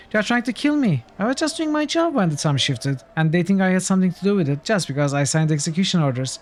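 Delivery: high, pleading frightened official; terrified official. Acted. Reads terrified official's dialogue.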